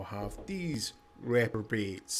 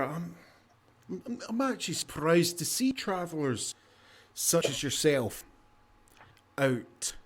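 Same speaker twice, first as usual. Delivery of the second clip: tavern keeper; 3 semitones higher, 3 dB louder than usual. Acted. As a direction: greet weary travelers like a chatty host.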